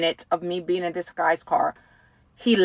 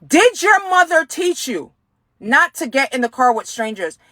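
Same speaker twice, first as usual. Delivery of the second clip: sharp, higher angry repeat of the question; retold angry question; 3 semitones higher than usual. Stranger in the car repeating his question, now angry. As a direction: snap it back at her like he's lost patience. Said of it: "And he got mad".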